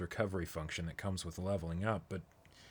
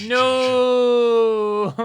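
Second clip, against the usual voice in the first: sudden high yell of no; a real startled cry; shocked shout; 14 semitones higher, 13 dB louder than usual. Real, not acted. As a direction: blurt it out, high and loud. Shocked outburst at the scene.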